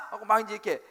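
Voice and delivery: ordinary talk, nothing marked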